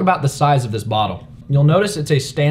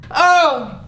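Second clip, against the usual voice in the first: mock pained cry; 13 semitones higher than usual. Mocking soccer players' theatrical cry.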